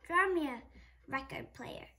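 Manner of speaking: loud, bossy monster; loud bossy monster demands; demanding monster. Acted. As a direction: boss him around loudly.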